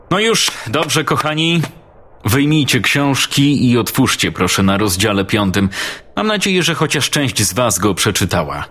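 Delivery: a kind teacher settling her pupils; teacher Sharon's voice. Acted. Teacher Sharon addresses class.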